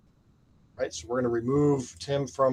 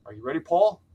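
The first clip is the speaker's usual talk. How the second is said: pumped, higher and louder; hyped giveaway announcement; 4 semitones higher, 4 dB louder than usual. Real, not acted. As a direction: rev up the crowd for the draw. Starting the prize drawing.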